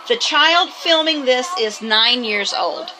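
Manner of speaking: reads the caption slowly, word by word; deliberate caption read-out; slow reading aloud. Shown as a demonstration. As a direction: spell out the on-screen text slowly. Reading scrolling caption words aloud.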